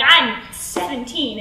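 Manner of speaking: slow, deliberate admission; measured, drawn-out 'seventeen'; demeanor snap. Acted. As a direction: state your age slowly and pointedly. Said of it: "it's a total demeanor snap".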